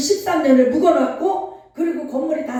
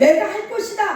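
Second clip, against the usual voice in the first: God's voice, pitched higher; solemn divine voice, a touch higher; 7 semitones higher than usual. Retold or imitated. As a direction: proclaim it as the voice from heaven. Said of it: "음성이 들려오는 거예요".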